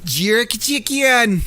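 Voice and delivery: slow, drawn-out bad Jamaican accent on jerk chicken. Streamer repeats the running joke to chat in a bad Jamaican accent. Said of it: "with a really bad Jamaican accent".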